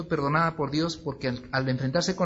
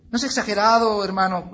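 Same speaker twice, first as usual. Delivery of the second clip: acted protest; 4 semitones higher, 6 dB louder than usual. Acted objection from a church member.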